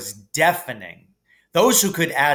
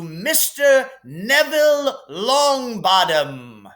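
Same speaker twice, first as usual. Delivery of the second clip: higher, grand headmaster voice; Dumbledore voice; 8 semitones higher than usual. Acted. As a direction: hand out points with relish. Dumbledore awarding points.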